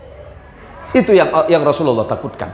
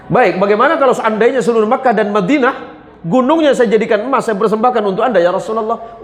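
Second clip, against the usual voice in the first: pleading angel; 7 semitones higher than usual. Acted. Angel raises offer.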